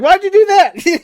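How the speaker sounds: a hint of a baffled Jesus asking why; Jesus voiced. Jesus voiced in retold sketch.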